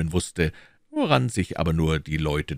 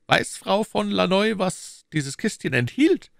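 higher, pressing questions as the Cardinal; Cardinal questioning. Acted. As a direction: interrogate his agent coolly. (der Kardinal, verhörend)

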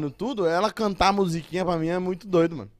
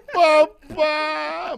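put-on high, loud baby cry of papá; toddler voice; 10 semitones higher, 7 dB louder than usual. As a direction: squeal it like a hungry toddler. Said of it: "Aí ela".

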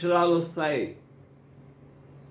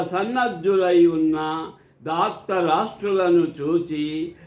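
scripture recitation. Acted. Narrating Arjuna's request to Krishna for Dhritarashtra, formal recitation. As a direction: recite it formally, stretching the calls and final words. Retells verse meaning with glosses.

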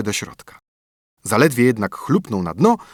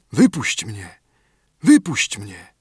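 muffled spirit calling from below; slower than usual. A narrator's reading. Spirit calls from under roots.

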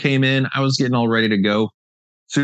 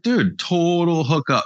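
excited; 8 semitones higher, slower than usual. Retold or imitated. Retold thrilled reaction to free frame.

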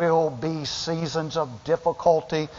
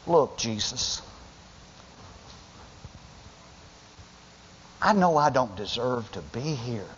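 humble plea. Acted. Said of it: "she said".

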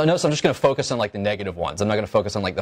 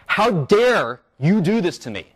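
slow, higher mock indignation; a lecturer voicing his own outrage, half-acted; indignant quote; 6 semitones higher, slower than usual. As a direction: act out resentment without shouting. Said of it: "capture my reactive attitudes in words".

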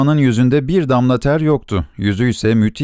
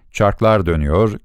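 plain reading voice

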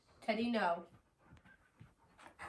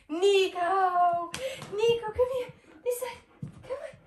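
high, loud calling; 11 semitones higher, 11 dB louder than usual. Real, not acted. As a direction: call the dog eagerly. Calling the dog over.

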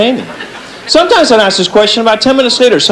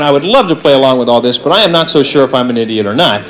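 audience thought; 6 semitones lower than usual. Retold or imitated. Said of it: "Some of you people are probably thinking".

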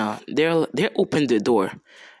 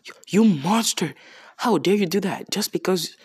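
raised, higher-pitched scolding; mock outrage; 5 semitones higher than usual. Moriyasu rebuking the hero, mock outrage. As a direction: imitate an indignant accuser, stammering at first.

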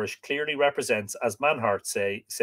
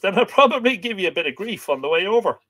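playful; 8 semitones higher, 5 dB louder, faster than usual. Real, not acted. Playful threat about the harvest.

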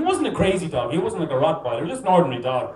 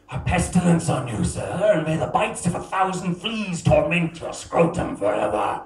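mock grand insult. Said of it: "This is what I wanted to say".

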